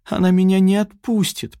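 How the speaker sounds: a mildly hammed-up whine; whining plea. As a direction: beg him, whining. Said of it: "проскулила Яна".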